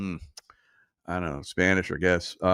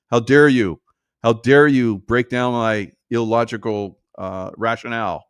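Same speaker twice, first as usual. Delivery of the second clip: indignant mimicry, punching DARE loudly; hammed-up offended protest; mock outrage; 4 dB louder than usual. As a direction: act affronted, slowing as you go. Mimics outraged opponents turning violent.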